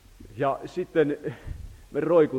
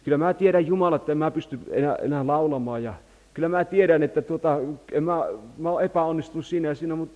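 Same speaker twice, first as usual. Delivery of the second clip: pleading prayer; 5 semitones higher, 4 dB louder, faster than usual. Retold or imitated. Voices a desperate prayer to God.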